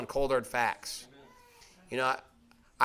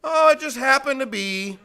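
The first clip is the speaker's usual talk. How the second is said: mock-innocent liar starting a story; breezy made-up story; 6 semitones higher than usual. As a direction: spin a casual tall tale. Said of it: "gonna start out like this".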